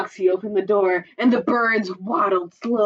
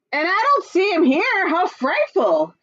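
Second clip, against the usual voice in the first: muttered; 10 semitones higher, 4 dB louder than usual. Acted. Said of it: "Foxy Loxy muttered".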